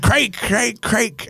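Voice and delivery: high, insistent mock Russian Craig; mock Russian accent. DJ mimicking the Russian girl's request, high and insistent. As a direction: imitate her pleading Craig. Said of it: "she's like".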